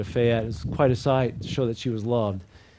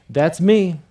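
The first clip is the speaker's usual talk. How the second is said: exclamation point; 3 semitones higher, 7 dB louder than usual. Shown as a demonstration. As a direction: proclaim it with full force, each phrase punched. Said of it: "Let's try it again".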